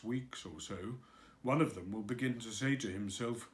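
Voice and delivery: lightly voiced glum old donkey, a bit low; gloomy Eeyore. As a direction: mope through it like a sorry-for-himself donkey. Eeyore complaining to Christopher Robin.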